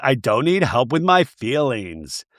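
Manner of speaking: slow, drawn-out imitation of tearful insistence; lightly mock a weepy protest, dragging the words; understated mock-sobby complaint; mock sobbing. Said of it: "You're sobbing".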